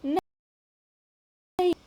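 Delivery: नहीं stretched long and slow on a high rising pitch; drawn-out emphatic no. Shown as a demonstration. Teacher stresses absence of combination.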